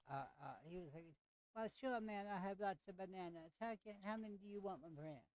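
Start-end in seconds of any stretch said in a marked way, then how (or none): 1.5-5.2 a light, hammed-up Jamaican lilt on the vendor; lightly voiced Jamaican fruit seller, friendly; bad Jamaican accent. Game master voicing the banana vendor to the player, light Jamaican accent. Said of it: "it's a horrible Jamaican accent".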